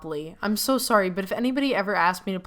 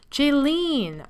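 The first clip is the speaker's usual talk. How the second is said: excited call; 6 semitones higher than usual. Acted. Calling out excitedly.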